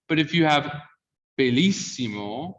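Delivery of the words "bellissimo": "bellissimo" with a closed first E. Shown as a demonstration. Teacher contrasting with bello, closed E in "bellissimo". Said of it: "the vowel gets closed".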